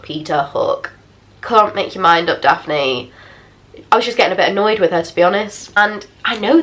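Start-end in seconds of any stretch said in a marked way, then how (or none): 0.0-0.9 mock sing-song, falling away; second of the back and forth. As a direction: lower and softer, swinging back. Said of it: "It was very samey, to and fro".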